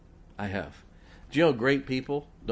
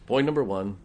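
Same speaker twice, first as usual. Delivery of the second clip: a preacher counting off numbered points, with loud punches on do this; lightly voiced preacher imitation, much louder on do this; Doctor Roberson's way of talking; 5 dB louder than usual. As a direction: tick off each point like an old pulpit preacher laying out orders. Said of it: "he would talk just like this".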